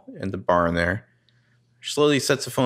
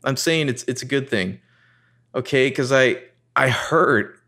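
higher, teary but smiling; smiling through tears; 4 semitones higher than usual. Retold or imitated. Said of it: "She's, she's smiling through the tears".

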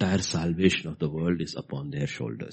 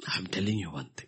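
whisper; 5 dB quieter than usual. Real, not acted. Preacher drops to whisper.

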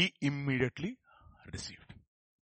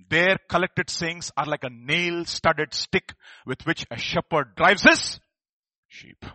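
slow reading; 7 dB louder, slower than usual. Acted. Slow emphatic scripture reading.

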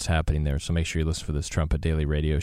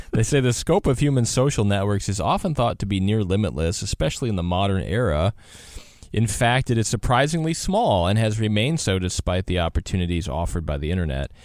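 slightly raised radio reading voice; measured, emphatic presenter reading; article read-aloud; 3 semitones higher than usual. Acted. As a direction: read the write-up out on air. Reads an article aloud on air.

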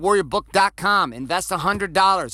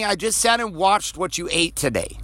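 incredulous outburst; 4 semitones higher than usual. Retold or imitated. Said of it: "And you're like".

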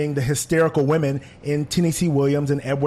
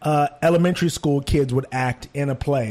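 incredulous. Retold or imitated. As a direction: scoff at the childish acting. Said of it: "and I was like".

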